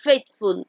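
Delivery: "faithful" split as faith-ful; two-beat pronunciation. Shown as a demonstration. Teacher showing "faithful" has two syllables, beat by beat. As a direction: say "faithful" in two separate beats. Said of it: "দুইবারে উচ্চারণ হচ্ছে".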